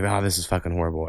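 despairing groan. Retold or imitated. Kid despairing at training.

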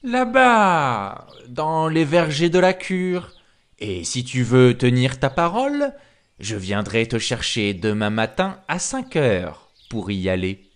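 lightly voiced persuasive wolf; a hint of coaxing wolf; wily wolf. Wolf fixing a meeting with the pig, mildly coaxing.

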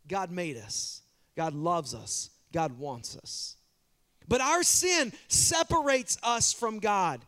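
ordinary talk

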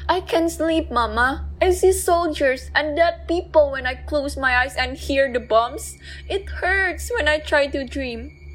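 lightly voiced small boy, sad; a scared child who can't sleep; little boy voice. Boy tells his nightmares.

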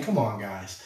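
a hint of reassuring teasing; mild buddy-to-buddy reassurance; friendly reminder. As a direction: gently remind old friends. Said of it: "in a way that you might with your friends".

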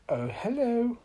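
high-pitched hello; smiling greeting. A narrator's reading. Little Miss Magic answers her door, high smiling greeting. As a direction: greet with an audible smile. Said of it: "smiled Little Miss Magic".

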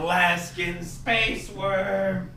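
high, slow silly voice; hammed-up announcement in a silly voice; playful put-on voice. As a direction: draw it out high and goofy. Playful put-on voice naming toy.

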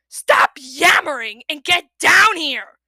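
loud, slow furious roar. A narrator's reading. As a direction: roar the order at him. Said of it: "Kestrel roared".

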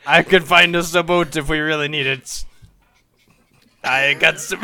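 put-on playful pirate accent. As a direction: talk like a pirate. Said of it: "keep that pirate voice up".

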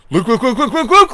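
high, urgent, laughing look look; rising alarm, laughing through it; dad's frantic look look. Retold or imitated. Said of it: "My dad's like".

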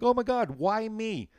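high, loud mock panic; panicked whine. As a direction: wail it like a doomed kid. Panicked reaction retold.

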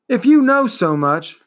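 put-on boy hero challenging the turtle, urgent. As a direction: challenge her.

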